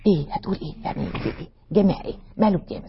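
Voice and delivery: whispered, startled questions from the crowd; hushed startled whisper. Pretend. Startled women whispering after one word called out. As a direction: whisper like the women turning in surprise.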